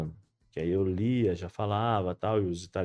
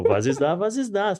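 parroting the words, rising higher; parrot repetition; 7 semitones higher, 5 dB louder, slower than usual. Retold or imitated. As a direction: repeat it mindlessly like a parrot. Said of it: "eu fiquei igual papagaio". (repetindo como papagaio, cada vez mais agudo)

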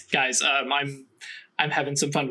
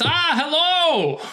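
high, loud cartoon German-accented hello; 12 semitones higher, 5 dB louder, slower than usual. Cartoon Einstein greets the new students, German accent. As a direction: greet them like a jolly German professor. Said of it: "a little bit of a German accent".

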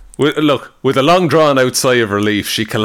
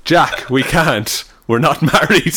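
hammed-up romance heroine; 2 semitones higher, slower than usual. Host reads heroine's line aloud, mock swooning. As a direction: overplay the prim lady refusing. Reading romance dialogue mockingly.

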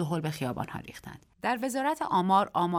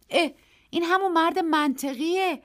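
startled, higher voice; surprised exclamation; 11 semitones higher, 5 dB louder than usual. A narrator's reading. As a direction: blurt it out in surprise. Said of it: "بی اختیار گفتم".

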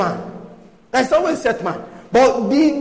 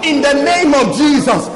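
fiery warfare prayer; 2 semitones higher, 3 dB louder than usual. Acted. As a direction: command the darkness with force. Rebuking the virus spirit in prayer.

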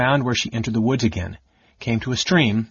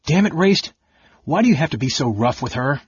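exasperated outburst; 4 semitones higher than usual. Acted. Brother's outburst.

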